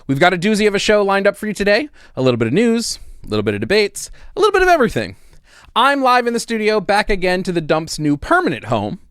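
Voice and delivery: upbeat news-host welcome, punchy and bright; announcer read. Acted. Host welcoming viewers to the comedy news show, upbeat announcer read. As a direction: sell the show like a cable news anchor.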